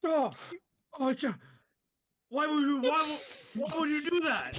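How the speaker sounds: can't believe he just threw it; exasperated disbelief. Acted. Bandit exasperated at goblin throw.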